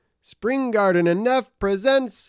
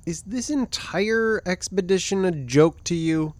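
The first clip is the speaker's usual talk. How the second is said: sincere, hurt challenge; earnest question; 3 semitones lower than usual. Acted. Clark confronts his joking companion, in earnest. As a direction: ask it in all seriousness. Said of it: "he asked in earnest".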